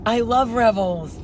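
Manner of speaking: slow mock Scottish echo; Scottish accent. Friend playing along with the demo, Scottish accent.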